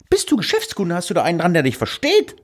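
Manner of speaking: high-pitched mocking rant. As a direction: squeak it out in disbelief. Retold exasperated mocking caller. (hohe, spöttische Stimme)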